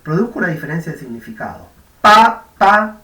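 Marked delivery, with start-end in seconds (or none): 2.0-3.0 "Pa, pa" punched out loud with explosive voiceless p's; loud demo "Pa, pa" for the class. Shown as a demonstration. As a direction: spit out "Pa, pa" hard and voiceless. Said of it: "Cuando yo cambio una por otra".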